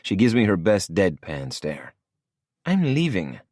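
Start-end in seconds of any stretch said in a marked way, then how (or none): 2.7-3.4 higher, lighter woman's voice; female voice. A narrator's reading. Lola voiced by male narrator.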